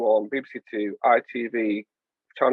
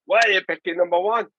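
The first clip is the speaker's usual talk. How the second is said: lightly higher, mock TV host voice; a hint of a Liverpudlian hostess; a well-known TV hostess; 4 semitones higher than usual. Host imitating a dating show presenter, lightly put-on voice. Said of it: "is that what she would say?".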